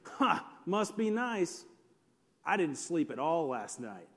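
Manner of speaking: mock envy sinking into a low grumble; one-upping. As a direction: imitate a sleep-deprived one-upper. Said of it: "somebody else has to, like, up that".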